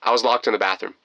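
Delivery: acted hesitant admission; awkward blurting. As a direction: stumble into it, restarting. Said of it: "and I blurted out".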